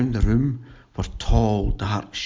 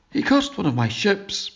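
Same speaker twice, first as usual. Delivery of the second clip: raised voice; 8 semitones higher than usual. A narrator's reading. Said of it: "My raised voice".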